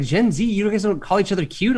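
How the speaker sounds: mock-incredulous question to a younger woman; incredulous, high. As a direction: ask it like you can't believe it. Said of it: "I was like".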